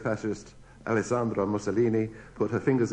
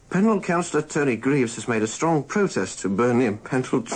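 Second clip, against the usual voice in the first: stifled laughter. Real, not acted. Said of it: "sometimes, thankfully, you lose".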